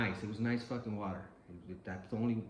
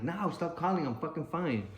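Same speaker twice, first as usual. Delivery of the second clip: sharply raised, louder, irritated retort; retelling an irritated reply to his family; annoyed snapping; 7 semitones higher, 4 dB louder than usual. Retold or imitated. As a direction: push them off the phone, higher and louder. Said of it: "I even got mad at them".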